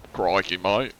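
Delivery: stereotypical Australian accent; crocodile hunter Aussie. Shown as a demonstration. Streamer giving another sample, crocodile hunter Australian accent. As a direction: throw out a quick Aussie catchphrase. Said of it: "there's crocodile hunter".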